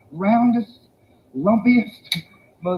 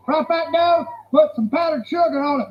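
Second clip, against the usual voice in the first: emphatic fry fat dough; 6 semitones higher than usual. Shown as a demonstration. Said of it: "Trust me".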